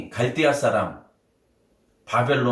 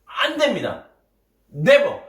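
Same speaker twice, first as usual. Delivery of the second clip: rough protest; 3 semitones higher than usual. Acted. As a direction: protest hard, rising to the last word. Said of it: "거칠게 소리 높였습니다".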